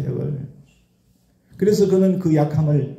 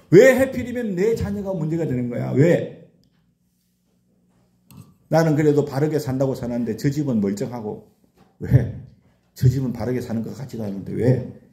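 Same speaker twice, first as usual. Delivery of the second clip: retold complaint. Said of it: "원망과 불평이 나올 수밖에 없어요".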